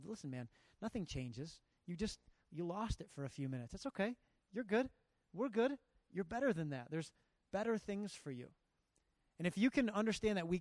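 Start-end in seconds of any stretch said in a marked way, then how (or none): 0.0-8.5 calm him down after the blowup; reassuring. Retold or imitated. To the ejected teen, gentle reassurance. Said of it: "to let him know".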